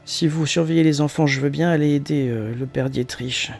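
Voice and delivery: a hint of a shaky elderly voice; quavering old woman's voice. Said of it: "Vous avez une, une voix chevrotante un peu âgée".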